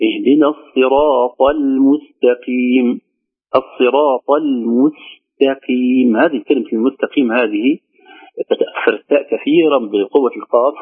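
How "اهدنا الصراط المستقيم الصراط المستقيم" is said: slow الصراط with a full, emphatic S; heavy sad recitation. Shown as a demonstration. Teacher modelling the verse, slow, الصراط with heavy sad. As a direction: keep the ص of الصراط heavy, vowels drawn out. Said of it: "يقرأها بالصاد وليس بالسين".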